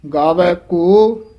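slow ਗਾਵੈ ਕੋ, then a stop; ਕੋ held before the break; pause after ਕੋ. Shown as a demonstration. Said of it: "ਇੱਥੇ ਵਿਸਰਾਮ ਹੈ".

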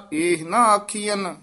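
ਇਹ ਨਾ ਆਖੀਅਨ said, then a full stop before going on; pause after the phrase. Shown as a demonstration. Teacher marking where the student should rest, with a clear pause after ਆਖੀਅਨ. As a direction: break cleanly after ਆਖੀਅਨ. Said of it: "ਇੱਥੇ ਵਿਸਰਾਮ".

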